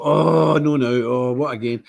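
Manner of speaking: long groaned oh, then weary complaint; acted dismay. Host reacting to switching on the morning news, acted dismay. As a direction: groan it out like it's happened yet again.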